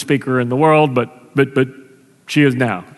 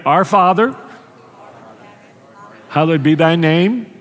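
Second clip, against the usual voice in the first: prayer. Real, not acted. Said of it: "So let's pray together".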